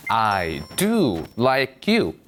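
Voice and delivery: very slow, "do" stressed; emphatic do. Shown as a demonstration. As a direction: stress "do" to mean really. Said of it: "나는 널 정말 좋아해". ("do"에 힘주어 천천히)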